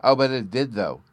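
quick eager protest; eagerly. A narrator's reading. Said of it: "Bruno put in eagerly".

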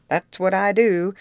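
loud, firm agreement with a hard push on the words; a loud, wholehearted yes; emphatic. A narrator's reading. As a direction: back him up hard and loud. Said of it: "was the emphatic answer".

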